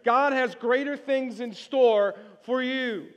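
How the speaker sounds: slow, stressed, for writing down; slow emphatic reading of "God has greater things"; slow dictation. Shown as a demonstration. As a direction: dictate it slowly to the room. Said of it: "let's write this in on your outline".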